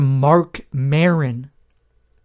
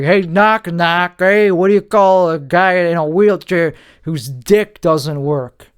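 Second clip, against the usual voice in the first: higher, louder cheesy joke-teller setup; hacky joke voice; 3 semitones higher, 4 dB louder than usual. Retold or imitated. Mocking comedians who only tell cheap jokes, in a louder, higher hack voice. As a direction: ham it up like a hack comic. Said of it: "I don't just do jokes like".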